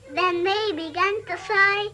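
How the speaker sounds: sing-song rhyme read to a small child, voicing the kittens and mother; playful nursery rhyme telling; nursery rhyme recital. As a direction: recite it like a bedtime rhyme for a toddler.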